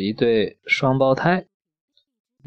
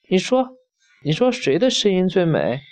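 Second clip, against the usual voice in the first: eager demand; 4 semitones higher, faster than usual. Acted. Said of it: "眼睛瞪得滚圆，忙问".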